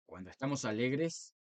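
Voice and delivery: lightly cheerful, lifting at the end; happy voice. Shown as a demonstration. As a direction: show a touch of joy in the voice. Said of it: "nuestra voz no es la misma". (con un toque de alegría)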